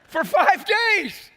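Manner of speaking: high, loud and very slow; preacher hammering home five days; shouted emphasis. Acted. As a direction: drag out and shout every word. Preacher repeats phrase, shouted.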